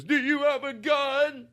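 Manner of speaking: high, drawn-out incredulous question; mock robbery victim. Victim questioning his robber, high mimicked voice. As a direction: pitch the victim's voice way up, slowly.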